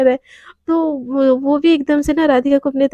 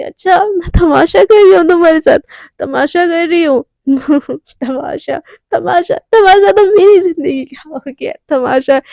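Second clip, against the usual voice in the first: put-on louder, teary drunk wail; drunk tearful outburst; 3 semitones higher, 3 dB louder than usual. Staggering Radhika wailing at Devika, teary and loud. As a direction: cry out the word तमाशा like a wounded drunk. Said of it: "ऐसे बोल के ना वो गिरने को होती है".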